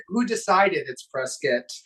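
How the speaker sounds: "Prescott" said as press-kit; short "-kit" ending on "Prescott"; local pronunciation. Shown as a demonstration. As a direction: question it, saying "Prescott" to rhyme with biscuit. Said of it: "It's Prescott like biscuit".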